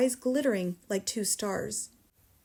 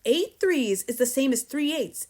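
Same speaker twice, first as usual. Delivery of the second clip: raised, emphatic drilling; shouted lesson; 4 semitones higher, 4 dB louder than usual. A narrator's reading. Headmistress drills dangling pupil, shouting. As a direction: drum the sum in forcefully. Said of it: "the Trunchbull shouted".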